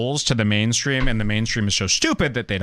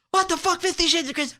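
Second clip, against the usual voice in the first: mock outrage; faster than usual. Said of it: "everyone goes".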